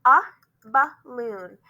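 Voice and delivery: lone "uh", then BALLOON as buh-loon; BALLOON with its A said as a short "uh"; schwa A. Shown as a demonstration. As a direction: sound out the A of BALLOON as "uh". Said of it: "but sometimes A borrows it".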